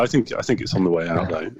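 slightly gravelly from a cold; rough, cold-worn throat. Real, not acted. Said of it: "your gravelly tones".

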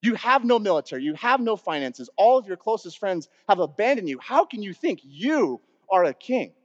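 mildly scornful, incredulous challenge; acted-out contempt, emphatic but controlled; disgust and disbelief. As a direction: press each point in disbelief, stressing "you". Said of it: "With this disgust and disbelief in there".

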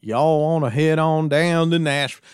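mock the singer's on-stage persona; a hint of a showman greeting the crowd; cheesy music guy. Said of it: "they talk like this".

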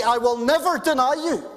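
emphatic. Retold or imitated. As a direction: play Peter swearing loyalty hard. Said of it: "He said it emphatically".

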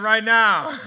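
loud, punched-out answer; eager insistence. Retold or imitated. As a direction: act out impatience to start. Retold eager answer about starting.

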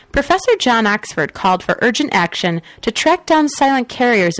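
steady newscaster delivery; news read. Acted. Reads the news items.

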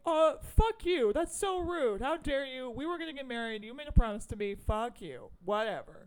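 hammed-up jilted bride telling him off; mock angry outburst. Retelling jilted Loretta snapping at him, mock angry.

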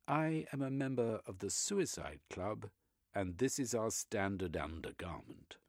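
a stiff Brit dodging the question; prim British gentleman. Acted. Velveteen, dignified British.

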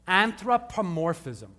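slow, measured ANTHROPOMORPHISM, part by part; slow and clear. Shown as a demonstration. Preacher teaches the congregation a new word, slowly and clearly. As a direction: sound out Anthropomorphism slowly for learners. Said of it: "I'll say it slowly".

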